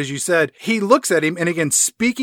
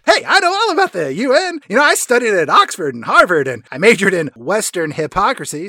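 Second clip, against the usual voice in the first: Colonel Moon; 3 dB louder than usual. Retold or imitated. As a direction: boast like a cartoon all-American colonel. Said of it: "Moon is like".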